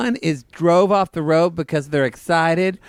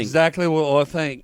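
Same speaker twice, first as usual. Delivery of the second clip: mock Australian accent. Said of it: "It sounds just like him".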